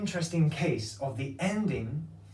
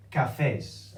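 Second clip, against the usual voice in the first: "cafés" stressed on FÉS; stress on last syllable; 3 semitones lower than usual. Shown as a demonstration. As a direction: lean on the final FÉS of "cafés". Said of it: "how to make the stress of the word".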